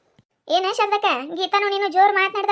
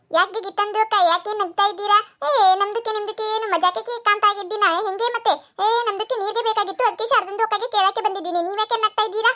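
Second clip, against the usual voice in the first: put-on Dakhni-accented Kannada. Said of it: "ಅದ್ರ ಭಾಷೆ ನಮಗ್ ಅರ್ಥ ಆಗುದಿಲ್ಲ".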